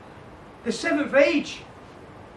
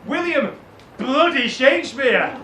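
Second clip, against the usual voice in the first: emphatic shout; 2 semitones higher, 5 dB louder than usual. Acted. Teacher adds a curse.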